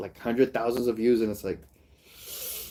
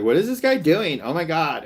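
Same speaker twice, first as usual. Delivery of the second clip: mock reactor; 4 semitones higher than usual. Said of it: "just be like".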